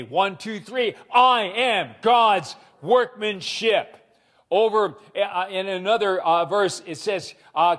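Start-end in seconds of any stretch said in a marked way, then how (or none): 1.1-3.9 group declaration, a bit louder. Real, not acted. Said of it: "Say it with me".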